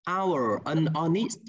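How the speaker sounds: "hour" and "honest" begun on their vowels, H dropped; silent H. Shown as a demonstration. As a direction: say "hour" like "our" and "honest" like "on-ist". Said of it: "đã là âm câm như thế này". (đọc "hour", "honest" không có âm H)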